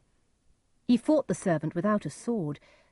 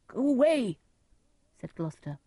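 raised, higher-pitched plea to be left alone; despairing dismissal; 8 semitones higher, 4 dB louder than usual. A narrator's reading. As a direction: send the rescuer away in despair. Despairing Gloucester rejects his rescuer.

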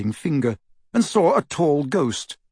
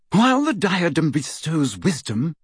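higher, carefully controlled; strained composure; 4 semitones higher than usual. Acted. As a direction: pull yourself together as you speak. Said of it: "with an obvious effort to pull herself together".

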